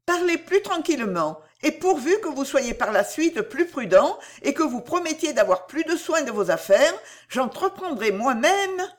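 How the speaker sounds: high-pitched earnest heroine; earnest young heroine, pleading. Acted. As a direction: urge him to take courage, voice lifted high. Narrator voices Cécile urging courage.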